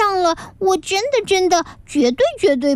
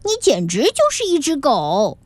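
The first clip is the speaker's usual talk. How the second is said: admiring exclaim. Acted. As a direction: gush with awe at his barking. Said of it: "最终佩服地说". (女孩佩服地惊叹，声音偏高)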